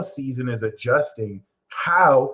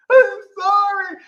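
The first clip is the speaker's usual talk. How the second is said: high meek apology; 7 dB louder, slower than usual. Retold or imitated. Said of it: "partner apologizing".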